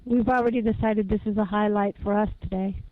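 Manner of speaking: muffled voice, as if covered. Real, not acted. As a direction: talk with the sound muffled. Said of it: "you're very muffled today".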